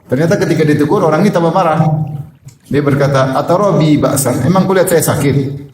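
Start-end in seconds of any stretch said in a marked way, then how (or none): 3.3-5.7 angry retort. Retold or imitated. Angry man rebuffs advice.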